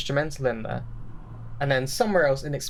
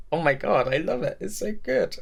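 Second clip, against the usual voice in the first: giddy fan squeal; squealing delight; 5 semitones higher than usual. Retold or imitated. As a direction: pitch climbing high with delight. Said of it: "and you'd be like".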